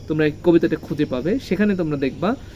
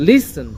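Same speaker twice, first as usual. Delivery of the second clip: লিসেন stressed on লি, light সেন; first-syllable stress; 5 semitones higher, 4 dB louder, much slower than usual. Shown as a demonstration. Teacher explaining to pupils, লিসেন stressed up front. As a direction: hit লি, let সেন drop. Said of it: "লি এটার উপরে stress দিয়েছি".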